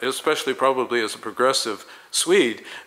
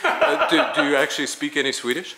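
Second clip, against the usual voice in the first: a high laughing start to the question; giggling question; 4 semitones higher than usual. Real, not acted. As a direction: ask while still laughing. Amused follow-up question.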